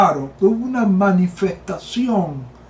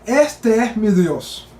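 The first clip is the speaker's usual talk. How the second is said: meditative; slower than usual. Shown as a demonstration. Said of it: "medita un momento en esa frase".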